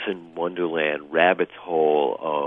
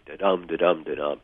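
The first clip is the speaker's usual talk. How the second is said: da-DUM with the second beat hit; iambic beat. Shown as a demonstration. Author shows the iambic beat the director pounded out. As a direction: tap out the rhythm, light then strong. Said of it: "pounding to the rhythm of the iambic pentameter".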